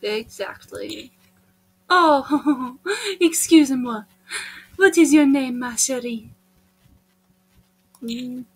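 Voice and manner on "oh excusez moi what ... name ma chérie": put-on flirtatious French accent; Frances Bonnefoy. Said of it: "I am Frances Bonnefoy".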